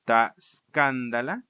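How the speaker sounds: "escándala" recited as SKAN-da-la; stress on antepenult. Shown as a demonstration. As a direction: put the weight on KAN in "escándala". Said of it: "Regresa a la misma posición".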